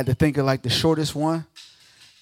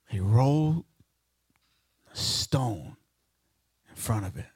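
hushed and dropping; 8 semitones lower, 7 dB quieter than usual. Acted. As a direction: fade to near silence on the stone. Dramatic telling of tomb.

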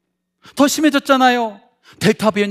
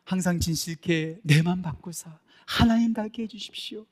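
soft prayer; 3 semitones lower, 7 dB quieter than usual. Acted. Quoted prayer line, soft and slow.

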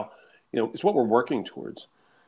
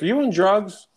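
higher, louder disbelieving question with a laugh; incredulous operator; 9 semitones higher, 6 dB louder than usual. Retold or imitated. Operator questions the giddy caller, amused disbelief. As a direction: imitate a baffled operator, voice jumping up.

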